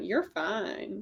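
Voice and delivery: soft, flirtatious come-on tone. Repeating the reassurance to the group, flirty. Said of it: "now it just sounds like you're hitting on someone".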